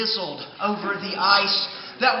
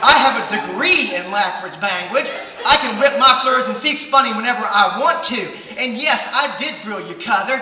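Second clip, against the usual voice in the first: defiant shout; 4 dB louder than usual. Acted. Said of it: "I said".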